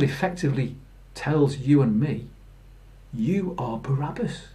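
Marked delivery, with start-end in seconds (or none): 3.1-4.5 hushed, breathed-out verdict; dramatic whisper. Acted. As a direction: drop to a whisper to land the point.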